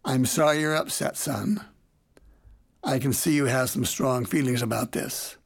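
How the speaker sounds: mildly calm, unemotional. Retold or imitated.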